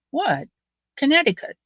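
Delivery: mock Elmo saying "Connecticut"; imitating Elmo. Imitating how the ex-military manager says "Connecticut". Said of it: "When Elmo says th-, the, the state Connecticut".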